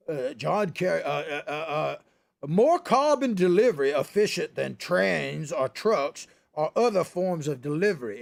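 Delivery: lightly voiced stammering Kerry, dragging each word; John Kerry impression. Host mocking John Kerry's speech with a light Kerry drone. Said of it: "I'll do his voice here".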